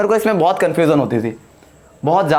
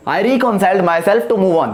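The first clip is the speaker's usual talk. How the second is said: each word spaced out slowly like dictation; much slower than usual. Shown as a demonstration. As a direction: read it slowly for the class to copy. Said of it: "क्या होगा?".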